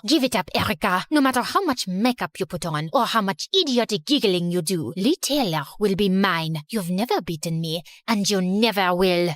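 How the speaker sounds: put-on low, menacing French-accented girl; angry French rival. Genevieve to Erica pinned against the wall, low angry French accent. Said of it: "marched up to me angrily".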